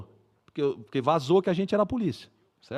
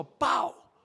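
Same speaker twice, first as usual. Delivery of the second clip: single short mock bang; imitated gunshot; 6 semitones higher than usual. Storyteller recalling shots on his left, imitated gunshot. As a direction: voice one distant shot. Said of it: "comecei a escutar uns tiros".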